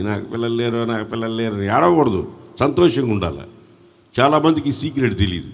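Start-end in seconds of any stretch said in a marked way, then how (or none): 0.0-1.5 mock tearful complaint. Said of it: "ఇంక ఏడుస్తూనే ఉంటారు కూర్చొని".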